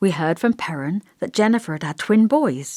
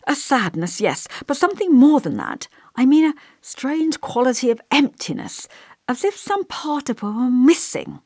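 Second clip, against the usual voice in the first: lightly voiced elderly vicar, musing and gentle; a kindly vicar pondering aloud, a touch higher; thoughtful old vicar; 4 semitones higher than usual.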